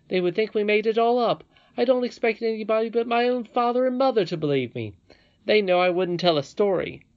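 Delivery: put-on high, loud, insistent boy; boy Curdie, exasperated. A narrator's reading.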